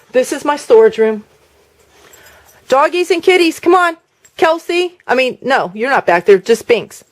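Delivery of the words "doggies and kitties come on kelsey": high sing-song call to the pets. Real, not acted. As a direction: call the animals in, pitched up. Calling the pets out.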